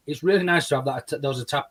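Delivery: words catching on a bite of sausage; choking on food. Real, not acted. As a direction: talk while half choking on food. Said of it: "I'm, uh, choking on a bit of sausage".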